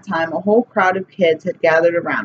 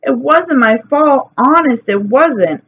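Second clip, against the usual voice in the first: higher, pleading mock sob; crying plea; 6 semitones higher than usual. A narrator's reading. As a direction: beg not to be blamed. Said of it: "Sheila cried".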